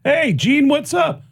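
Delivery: high, bright mock greeting; buddy's answer. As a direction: play it up as a cheery pal. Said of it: "he picks up the phone and goes".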